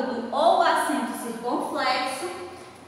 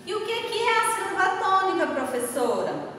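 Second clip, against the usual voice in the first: pupil's question; 6 semitones higher, faster than usual. Acted. Teacher voices a pupil's question.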